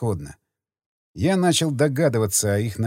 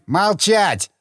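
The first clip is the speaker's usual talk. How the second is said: cutting order; 6 semitones higher than usual. A narrator's reading. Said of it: "оборвал меня Карадзини".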